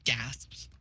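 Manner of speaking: low unvoiced whisper; hushed, voiceless aside. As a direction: whisper it like a stage direction. Stage direction read aloud in whisper.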